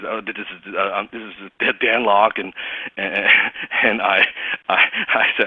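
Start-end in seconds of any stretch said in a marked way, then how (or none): 0.1-2.4 nervous halting stammer; stuttering. Retold or imitated. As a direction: stumble over the words nervously. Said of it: "I was stuttering".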